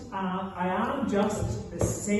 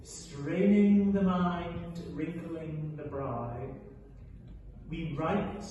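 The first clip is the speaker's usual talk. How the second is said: mock poetic recital. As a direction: recite it like grand verse. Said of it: "as the poet says".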